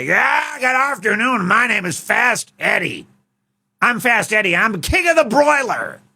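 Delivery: a loud burger chef bellowing his own name; Fast Eddie voice. Pretend. Chef Fast Eddie introducing himself to the king, high brash shout. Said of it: "His name is Fast Eddie".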